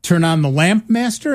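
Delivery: lightly voiced computer checking the order; computer asking back. Computer checks command with its user, questioning echo. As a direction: query it back, rising at the end. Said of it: "the computer would say".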